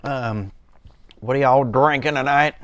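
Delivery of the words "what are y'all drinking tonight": light, bastardized southern accent; slipped-in southern accent. Real, not acted. Asking viewers about their drinks, in a loose southern accent. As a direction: let a bit of southern accent slip in. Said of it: "what my accent is tonight".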